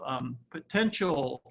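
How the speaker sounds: potential said slowly and weighted; stress on potential. Real, not acted. Lecturer stressing the key word for the audience, slow. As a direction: lean on "potential", draw it out. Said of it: "I wanna emphasize the word potential".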